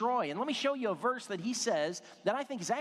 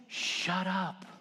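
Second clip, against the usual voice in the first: whispered confession. Retold or imitated. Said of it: "just whisper it in my ear".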